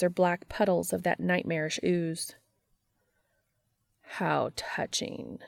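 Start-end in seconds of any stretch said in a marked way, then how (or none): 4.0-5.4 sarcastic. Acted. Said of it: "the empty says".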